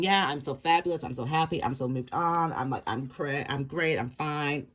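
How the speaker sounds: mock breezy denial. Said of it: "this person's going".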